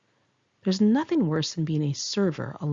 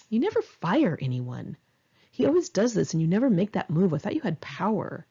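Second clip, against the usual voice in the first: taunting. Retold or imitated. Narrator taunting her boss about never firing anyone, mild mock taunt. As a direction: goad him, lightly acted. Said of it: "I started taunting him".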